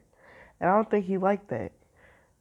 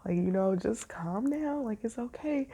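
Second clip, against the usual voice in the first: soft, soothing inner voice, slowing on calm down; calm higher self; 3 dB quieter than usual. Pretend. Her higher self calming her down, softly soothing. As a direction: gently talk yourself down, a touch of tenderness. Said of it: "my higher self is like".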